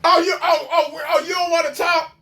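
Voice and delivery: mocking his question through laughter; laughing mockery. Host laughing at the man's line, laughing mock. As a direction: cackle as you throw his line back.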